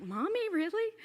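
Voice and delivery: high-pitched little daughter questioning her mom; daughter's protest. Retold or imitated. Daughter objecting to Siri naming mom fairest, imitated indignant protest. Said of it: "She's like".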